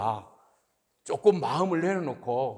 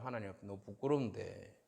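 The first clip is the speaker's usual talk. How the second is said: very low, soft admission of shame; ashamed murmur; 10 semitones lower, 14 dB quieter than usual. Acted. Believer too embarrassed to score own faith, ashamed murmur. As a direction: let the voice sink away, abashed. Voicing shame before God.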